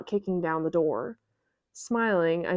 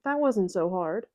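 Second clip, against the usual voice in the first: sweetly. Acted. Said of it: "she says sweetly".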